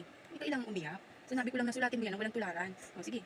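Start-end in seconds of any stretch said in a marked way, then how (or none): 0.0-1.0 quiet reassurance; gentle soothing. Real, not acted. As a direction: hush them kindly, much softer. Mother soothing a crying child.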